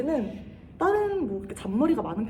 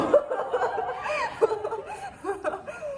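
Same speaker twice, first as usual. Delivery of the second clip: high giggle. Real, not acted. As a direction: burst of high-pitched giggling. Giggling at students behind.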